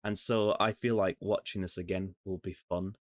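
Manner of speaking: casual chat in a mock Scottish accent; put-on Scottish accent. Podcast host opening the episode, in a mock Scottish accent. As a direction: lay on a Scottish accent, half-joking. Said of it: "Are you gonna do that really stupid accent for the whole recording".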